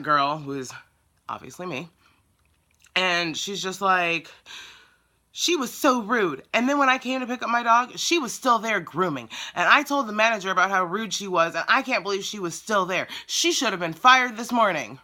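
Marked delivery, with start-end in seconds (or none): 5.3-15.0 lightly voiced outraged customer, higher pitched; mock complaint, pitched up; complaining customer. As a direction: imitate an indignant caller airing a grievance.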